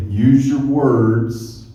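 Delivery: slow, deliberate teacher instruction; a teacher coaching kids to stay calm, slow and deliberate; mock teacher line. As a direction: spell it out like a kindergarten teacher. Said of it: "They say".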